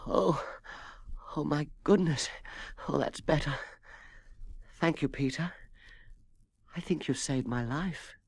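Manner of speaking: high, soft croaky cat voice; grateful weak croak after the bone. A narrator's reading. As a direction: rasp it out with a sore throat. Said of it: "Tallulah sat up and croaked".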